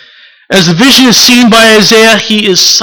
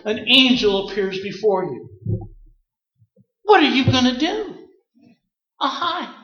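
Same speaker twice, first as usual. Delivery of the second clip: hushed awe; 2 semitones higher, 7 dB quieter than usual. Acted. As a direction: draw them in with an awed hush. Hushed imagined angel encounter.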